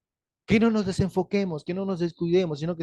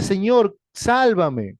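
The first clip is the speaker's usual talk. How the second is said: desperate cry for help; 6 dB louder, much slower than usual. Acted. Pedro sinking, crying out.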